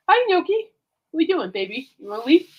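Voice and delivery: pet talk. Real, not acted. Host greeting the pet who wandered in, pet talk.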